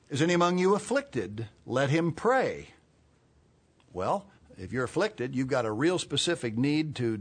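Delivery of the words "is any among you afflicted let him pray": raised-pitch Bible reading; scripture reading. Real, not acted. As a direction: read it out high, slowing on the last phrase. Reads scripture aloud forcefully.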